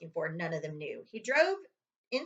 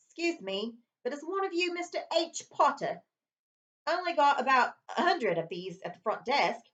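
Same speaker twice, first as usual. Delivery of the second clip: hotel owner; 6 semitones higher than usual. Acted. Hotel owner voiced in story.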